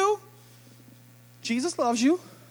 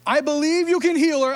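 1 hopeful faith; 5 semitones higher, 3 dB louder than usual. Shown as a demonstration. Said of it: "Do you hear the difference in those two phrases?".

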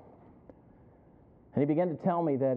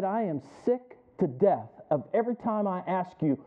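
loud and climbing much higher, a furious shout at the end; angry outburst; 6 semitones higher, 9 dB louder than usual. Retold or imitated. Young husband yelling at the preacher, angry and rising. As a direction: throw the frustration right at him. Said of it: "acting like a fool".

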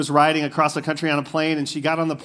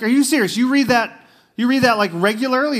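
high, louder mock disbelief; a guy on a plane asks the woman, hammed-up disbelief; incredulous guy; 6 semitones higher, 4 dB louder than usual. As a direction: pitch it up like a stunned stranger. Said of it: "And he's like".

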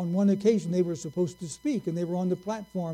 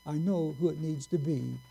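softer, settled and unhurried; calm; 2 semitones lower, 4 dB quieter than usual. Retold or imitated. Lincoln calmly settling his staff, softer and steady. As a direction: reassure the room quietly, no rush. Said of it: "he very calmly said".

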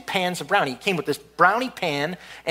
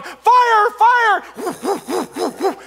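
high, loud yell for help; running down the stairs with a burning pan, yelling a warning; shouting fire; 12 semitones higher, 4 dB louder than usual. Retold or imitated. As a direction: holler it down the stairwell. Yelling while running downstairs.

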